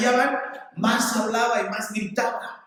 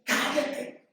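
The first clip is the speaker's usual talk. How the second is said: higher-pitched hushed telling-off; crowd shushing a beggar; 4 semitones higher, much slower than usual. Retold or imitated. Crowd hushing the blind man, scolding in a high, held-back voice. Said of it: "Entonces le decían".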